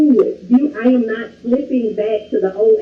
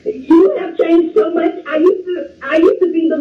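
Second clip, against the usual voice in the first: laughing through tears; 4 semitones higher than usual. Real, not acted. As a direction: gush out the praise with a laugh. Tearful caller praising host.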